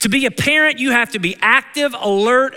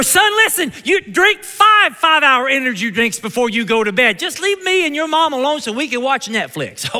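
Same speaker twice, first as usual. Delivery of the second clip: fed-up giving in; 5 semitones higher than usual. Retold or imitated. Worn-down parent giving in to kids.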